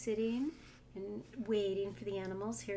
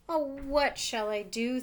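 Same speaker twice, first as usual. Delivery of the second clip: worried; 5 dB louder than usual. Acted. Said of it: "thought Bobo".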